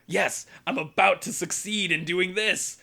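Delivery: high, gleeful scheming quote; hammed-up exultant cry; mock triumph. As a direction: imitate a schemer about to win. Characters gloat over their scheme.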